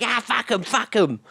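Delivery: high dismissive put-on voice; lightly voiced dismissive woman. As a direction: brush it off. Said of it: "She's just like".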